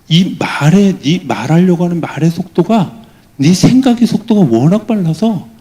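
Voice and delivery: high, loud preacher's burst; fervent preaching. Acted. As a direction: drive the point home, loud and high. Preaching at full force. (높고 큰 소리로 열정적인 설교)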